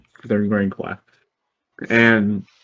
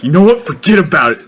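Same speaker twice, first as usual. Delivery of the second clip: higher, louder fed-up retort; retold exasperation; 7 semitones higher, 6 dB louder, much faster than usual. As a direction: act out a kid who has had enough. Retold kid snapping at teasers.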